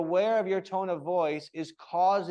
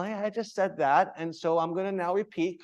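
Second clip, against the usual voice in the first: light, fun repeat with a lift; playful, teacher repeating for fun. Shown as a demonstration. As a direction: tease it gently. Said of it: "like, for fun".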